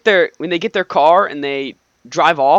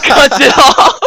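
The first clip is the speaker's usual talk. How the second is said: slow, high and loud mock drama; hammed-up dramatic; 8 semitones higher, 8 dB louder, slower than usual. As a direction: draw it out like an action trailer. Hammed dramatic action narration.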